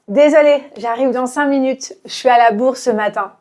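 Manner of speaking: fast casual. Shown as a demonstration. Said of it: "de manière très naturelle".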